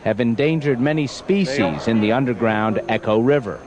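measured news-report narration; Reportage-Sprecher. Acted. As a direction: read it as a scripted TV feature voice-over. Reads a recorded news report.

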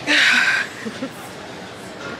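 talking through metal brackets; speaking with braces. Real, not acted. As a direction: lips over braced teeth. Seen 2: Metal brackets and wires visible on teeth throughout, while speaking.

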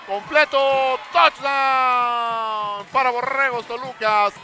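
long, stretched-out shouted call; touchdown call. Real, not acted. Touchdown call in live broadcast.

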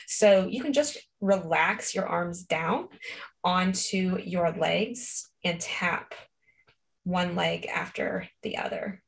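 gentle slow guidance; guided calm. Acted. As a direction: ease them into relaxing. Slow guided relaxation instruction.

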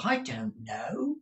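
slow, high, whispery reply; urgent hush. A narrator's reading. Girl hushes prying Miss Nagg, whispering.

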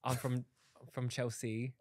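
tentative put-on London accent; British accent. Answering where they're from, hesitant British accent. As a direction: try a British accent, unsure. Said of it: "I like British accents".

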